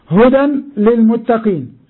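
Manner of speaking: slow, stressing هدى with a falling close; slow emphatic quote. Shown as a demonstration. Teacher to students, making them notice the verse, slow and stressed. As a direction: lean on هدى and draw the verse out. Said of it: "انتبه".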